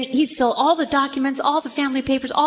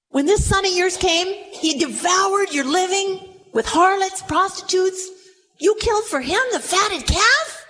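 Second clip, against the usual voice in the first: accusing son; 6 semitones higher than usual. Acted. Elder son accuses father.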